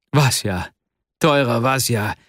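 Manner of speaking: understated joy, calling a dear friend; joyful exclamation. A narrator's reading. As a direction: exclaim the name with a touch of gladness. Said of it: "rief Arkadi Iwanowitsch freudig aus". (verhalten freudiger Ausruf)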